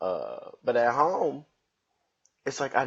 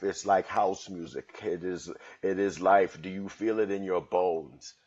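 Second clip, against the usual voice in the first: put-on horrible British accent. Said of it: "that was a horrible British accent".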